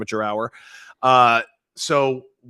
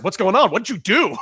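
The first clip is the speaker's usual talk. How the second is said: alarmed questions; 8 semitones higher, 6 dB louder than usual. Retold or imitated. Alarmed at bloody teammate.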